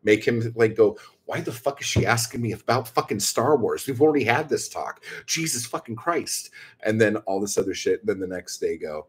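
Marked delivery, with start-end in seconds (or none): 1.2-6.5 higher-pitched mock exasperation; imitating someone baffled and annoyed; pissed off. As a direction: play at being driven crazy, without raising the volume. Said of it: "he's going crazy and he's pissed off".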